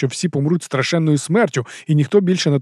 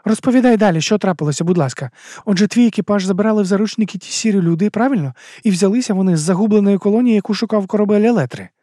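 put-on higher young female voice, uneasy question; a nervous girl asking, pitched up; Амена, вищий жіночий голос; 7 semitones higher than usual. A narrator's reading. Amena voiced. (вищий дівочий голос, тривожне запитання)

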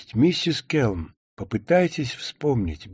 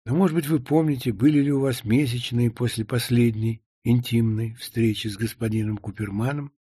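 usual speaking voice

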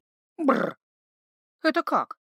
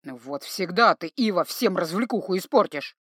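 a hint of a sulking troll; troll sulks at losing his fun; mild disappointment; 3 semitones lower than usual. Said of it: "Даже расстроился он".

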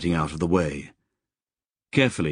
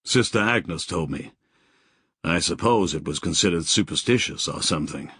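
quick, flat and emotionless; numb, drained of feeling, quick pace; faster than usual. Acted. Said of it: "said in a flat voice".

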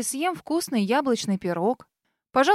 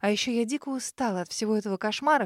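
ordinary delivery

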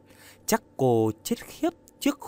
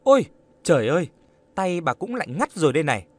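higher, louder exclamation, then quick; crying out; 4 semitones higher, 4 dB louder, much faster than usual. A narrator's reading. Young woman finding the old woman's hand freezing, crying out. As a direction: exclaim in sudden concern. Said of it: "Trâm kêu lên".

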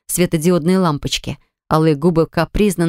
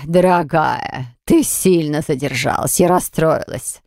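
slow, lower, mock-hurt hostess voice; a lightly voiced, peeved aunt scolding a latecomer; aunt's sulky complaint, drawn out low; irritated exclaim; 3 semitones lower, slower than usual. A narrator's reading. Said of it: "воскликнула Эмпуза, раздражённо".

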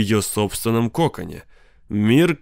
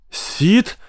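wife yelling at Sid; sharp yell; 9 semitones higher than usual. Acted. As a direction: shriek his name. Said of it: "резкий вопль жены".

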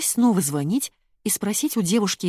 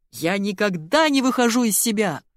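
raised, indignant outburst; yelling; 3 semitones higher than usual. A narrator's reading. Colonel denies losing his temper, yelling. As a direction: insist hotly, voice going up. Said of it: "заорал полковник".

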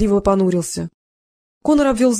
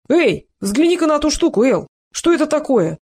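встревоженно; 6 semitones higher than usual. A narrator's reading. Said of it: "встревоженно спросил".

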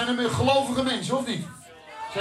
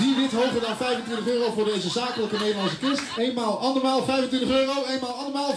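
auctioneer. Acted. Auctioneer closes the sale.

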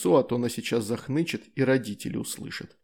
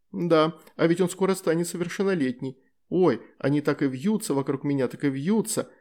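playful; 3 semitones higher than usual. Acted. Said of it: "игриво произнесла демоница".

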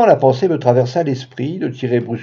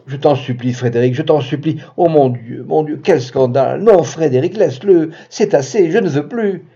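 pleading moan; 2 semitones higher than usual. Acted. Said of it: "gémit".

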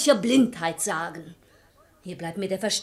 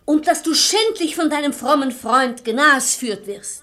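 insistent; 5 semitones higher, 6 dB louder than usual. Acted. Wife insists husband is fooled.

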